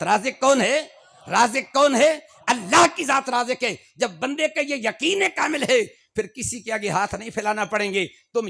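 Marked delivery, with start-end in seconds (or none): 0.0-2.2 lovingly asked. Shown as a demonstration. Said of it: "بولی محبت کے ساتھ".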